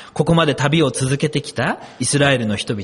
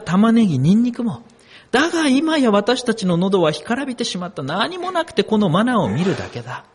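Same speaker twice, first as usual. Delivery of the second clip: mild mock complaining; 4 semitones higher, 4 dB louder than usual. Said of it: "大声で泣いて言った".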